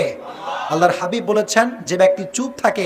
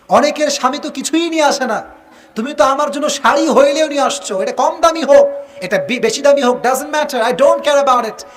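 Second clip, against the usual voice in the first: grateful wife voice; 5 semitones higher than usual. Retold or imitated. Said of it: "স্ত্রী বলে যে".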